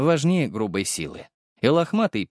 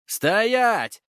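yelled order; 10 semitones higher than usual. A narrator's reading. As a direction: bark a halt order. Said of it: "заорали рядом".

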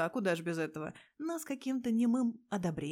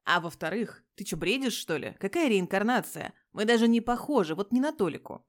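loud, exasperated objection; loud, incredulous arguing; heated denial; 8 dB louder than usual. Acted. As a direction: shout him down in disbelief. Petya keeps arguing, heated.

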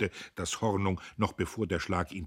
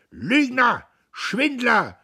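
loud, high insults; the crowd spits abuse; loud, high jeers; crowd yelling; 12 dB louder, much slower than usual. A narrator's reading. Hall heckles Diederich.

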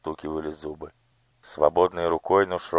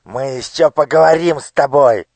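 high, vicious threat; the minister hisses a promise of revenge; spiteful squeak; 9 semitones higher, 10 dB louder than usual. Acted. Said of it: "злобно пропищал министр". (злобный писк)

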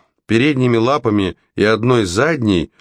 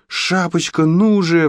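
high-pitched pleading call; urgent squeal; 10 semitones higher, slower than usual. A narrator's reading. Alex hurries Red along, squealing. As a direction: squeal it without much volume. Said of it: "взвизгнула Алекс".

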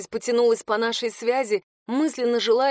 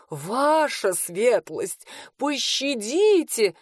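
pleading cry; much slower than usual. A narrator's reading. Steward begs the lady for mercy, terrified drawn-out wail. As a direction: beg for mercy, stretching every syllable. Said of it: "вскричал управляющий".

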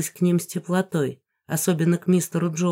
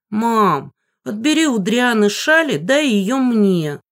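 higher, louder, drawn-out whining plea; whiny nagging; 5 semitones higher, 5 dB louder than usual. A narrator's reading. Sister enviously begging mom for the shawl, whiny. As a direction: nag mom like a jealous little sister. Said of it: "нудила Анна Ри с завистью".

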